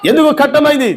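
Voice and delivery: ఎందుకు shouted out with force; shouted question. Acted. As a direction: hurl the question ఎందుకు at the congregation. Preacher repeats question, then shouts. (ఎందుకు అని గట్టిగా అరిచి అడగడం)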